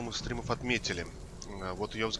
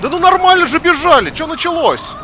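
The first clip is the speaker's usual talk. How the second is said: shrieking high furious yell; raging gamer; 17 dB louder than usual. Real, not acted. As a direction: scream in outrage at the game. Screaming at game.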